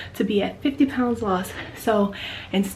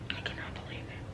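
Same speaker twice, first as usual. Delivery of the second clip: stunned whisper; 20 dB quieter, faster than usual. Real, not acted. Stunned at her result, hushed disbelief. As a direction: murmur it in awe. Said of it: "I'm just so overwhelmed right now".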